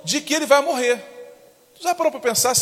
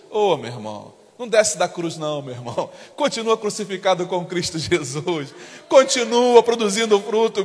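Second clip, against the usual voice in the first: much lower, gentle pastoral appeal; low coaxing pastor voice; tender plea; 4 semitones lower than usual. Real, not acted. Pastor pleading tenderly with member.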